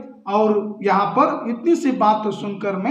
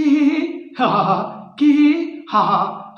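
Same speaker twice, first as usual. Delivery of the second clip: put-on giggling laugh; a character bursting in laughing; 3 semitones higher than usual. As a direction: giggle it out, spelled-out ha ha. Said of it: "हंसती हुई आ जाती है".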